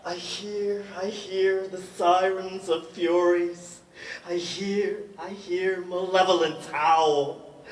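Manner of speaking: high, loud impassioned cry. Acted. Poem climax, raised voice.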